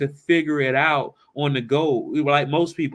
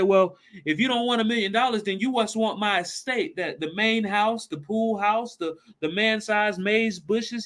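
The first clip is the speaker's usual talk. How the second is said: eager rich father; 6 semitones higher than usual. Retold or imitated. Father pressing the swimmer.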